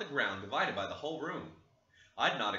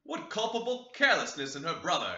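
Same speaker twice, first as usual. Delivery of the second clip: exclaiming; 4 semitones higher, 5 dB louder than usual. Acted. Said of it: "exclaimed Mister Linton".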